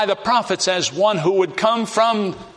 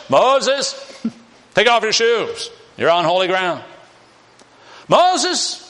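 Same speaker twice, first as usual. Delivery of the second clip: voice of God; 5 semitones higher than usual. Acted. God speaks from burning bush.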